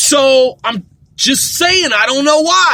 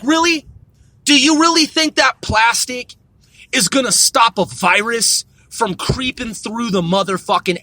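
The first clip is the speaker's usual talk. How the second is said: incredulous rant; 2 semitones lower than usual. Retold or imitated. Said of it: "And I'm like".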